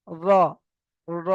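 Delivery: র alone, tongue turned up to the palate; articulation demo. Shown as a demonstration. Teacher shows the tongue turning, isolated r in র. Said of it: "জিভটা ঘুরে গিয়ে".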